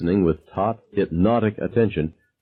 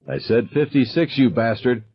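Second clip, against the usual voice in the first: mild hysterical scream; 4 semitones higher than usual. Acted. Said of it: "Screaming, out of breath, hysterical".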